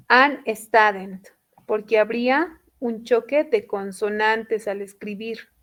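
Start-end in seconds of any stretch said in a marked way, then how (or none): 0.1-1.3 "an student" said slowly as the wrong form; slow "an student" as what not to say; wrong form shown. Shown as a demonstration. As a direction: show "an student" as the mistake. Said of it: "No podemos poner".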